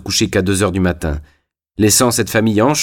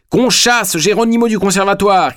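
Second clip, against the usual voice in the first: ordre crié, aigu et furieux; criez-le, bouillant de colère; 11 semitones higher than usual. A narrator's reading. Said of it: "cria-t-il, bouillant de colère". (Zingarelli chasse Geronimo, cri furieux)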